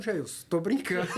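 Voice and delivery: retold plea breaking into laughter; laughing retreat. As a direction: laugh while backing down from your own threat. Backing down jokingly, laughs at himself. (recuando, rindo de si mesmo)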